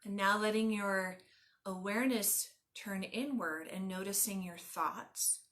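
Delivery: calm, measured meditation guide with long pauses; guided meditation. Acted. Yoga teacher leading listeners lying on the ground, guided meditation. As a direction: guide them gently into stillness, phrase by phrase.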